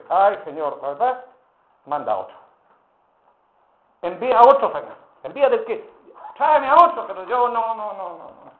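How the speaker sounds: "otro" subido y fuerte, luego un "no, no, no" que se apaga; negativa quejumbrosa. Retold or imitated. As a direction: suplica que manden a otro. Moisés rehusando, insistente. (Moisés le ruega a Dios que mande a otro, con quejido)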